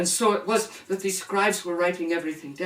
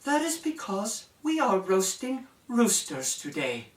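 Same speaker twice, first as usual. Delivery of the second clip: cold princess voice; 5 semitones higher than usual. Acted. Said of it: "with her cold, hard look".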